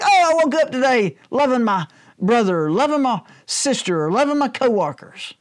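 high-pitched, hammed-up wonder at loving everyone; mock elation. Preacher mocks someone waking under a love spell, gushing. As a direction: gush it in mock amazement.

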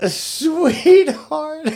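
calling out. Real, not acted. Calling out to cohost.

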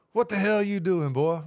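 imitated dad. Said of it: "This is what your dad said to me".

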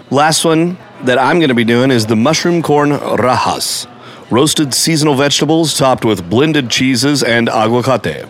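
measured menu read in announcer style; voice-over voice. Pretend. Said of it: "went into my full V O voice".

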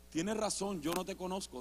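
very soft, low concession; quiet preacher reply. Retold or imitated. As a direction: answer calmly, barely above a murmur. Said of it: "las palabras de aquel predicador que me dijo". (predicador en voz muy baja)

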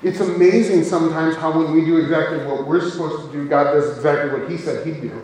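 quick, run-on mock amazement; sarcastic. Shown as a demonstration. Preacher tells church God keeps his word, sarcastic. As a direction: feign amazement with dry sarcasm. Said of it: "That was sarcasm".

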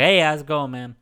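coworker's New Orleans greeting; impression of a local coworker; Jimmy. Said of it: "Uh, so it goes like this".

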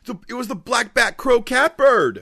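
very high cartoonish squeal; squeaky high voice. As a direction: pitch way up, silly. Silly high voices in cold open.

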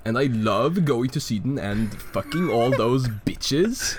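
playing a boastful Norwegian bridge troll in a Scandinavian accent. Troll King bragging about Norway, in a hammed-up Scandinavian accent. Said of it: "Scandinavian accent".

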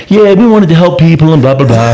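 lightly mocked eager kid babble; giddy kids. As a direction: rattle on like a giddy boy. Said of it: "started getting really excited and, like, really giddy".

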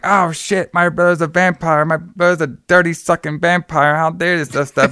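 mock panic, pitched well up; hammed-up panic over his vampire brother; imitating a kid freaking out, voice jumped high. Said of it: "Sam freaks out".

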